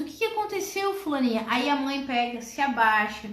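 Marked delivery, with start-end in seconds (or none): 0.0-1.4 startled mother. Acted. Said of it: "E aí pergunta".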